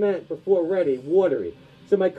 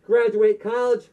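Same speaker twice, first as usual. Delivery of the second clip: hammed-up dubbed kung fu film voice, higher; kung fu movie villain; 4 semitones higher than usual. Comic sketch parodying a dubbed kung fu film, hammed-up villain voice. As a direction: ham it up like a badly dubbed martial arts movie.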